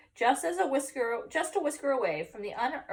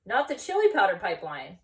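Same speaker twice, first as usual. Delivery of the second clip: declaring; 5 dB louder than usual. Acted. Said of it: "declared Scapito".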